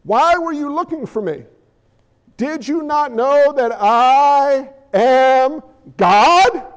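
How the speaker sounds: slow, calm innocent question; a son gently explaining to his mother; slowing on "God"; gentle boy. Retold or imitated. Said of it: "fully respectfully".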